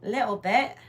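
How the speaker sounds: a light mock British "Little bit"; playful British accent. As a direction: say "Little bit" with a hint of posh British vowels. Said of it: "say that in a British accent".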